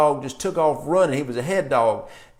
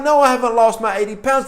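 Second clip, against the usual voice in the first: raised-pitch mock protest; protesting client; 6 semitones higher, 4 dB louder than usual. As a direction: imitate a client objecting.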